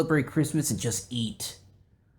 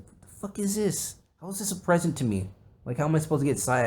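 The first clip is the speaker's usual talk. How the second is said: put-on indignant kid; 5 semitones higher, faster than usual. Kid quote on getting clothes.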